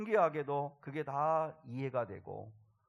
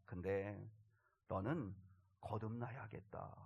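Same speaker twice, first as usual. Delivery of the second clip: solemn voice of God; 4 semitones lower, 7 dB quieter than usual. Retold or imitated. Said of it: "뭐라고 하셨냐면".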